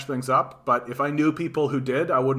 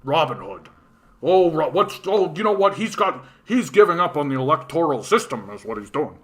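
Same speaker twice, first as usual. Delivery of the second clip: a shocked know-it-all, pitched up and loud; mocking pundit; 2 semitones higher, 4 dB louder than usual. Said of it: "we don't go".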